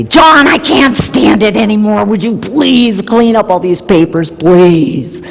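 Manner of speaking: gently pleading wife, lightly played; mock gentle plea. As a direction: ask sweetly, with a hint of exasperation underneath. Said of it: "And I will very gently say".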